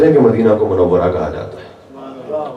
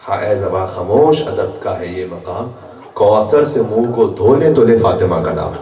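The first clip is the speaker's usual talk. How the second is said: poem recitation. Shown as a demonstration. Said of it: "انیس نے کہا کہ".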